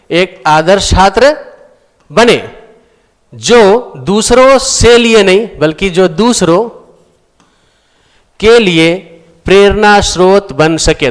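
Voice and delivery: slow, spaced correction with pauses; corrected reading. Shown as a demonstration. Teacher slowly reading out the corrected sentence. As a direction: lay out the corrected sentence piece by piece. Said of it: "तो बना के जगह हम क्या बोलेंगे?".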